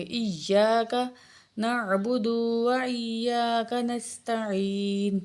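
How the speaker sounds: ایاک with the doubled ya pressed hard; slow, careful recitation; firm doubled ya. Shown as a demonstration. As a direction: stress the shadda in ایاک. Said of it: "سختی سے پڑھیں گے".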